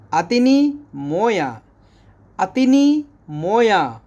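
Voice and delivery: अतनी मोया with stress on अतनी, falling; Arabic model phrase. Shown as a demonstration. Teacher modelling Arabic for water. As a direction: repeat अतनी मोया clearly. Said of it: "इसको बोलेंगे".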